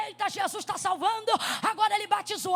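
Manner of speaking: loud playful pulpit cry, imitating her child self; mock preaching shout. Child playing preacher to the cushions, loud mock cry. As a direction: shout it like a boy preacher in his living room. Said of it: "Eu dizia".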